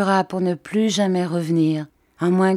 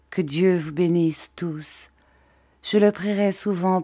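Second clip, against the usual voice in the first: whispered blessing. Acted. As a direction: whisper the blessing like a last goodbye. Letter's farewell blessing.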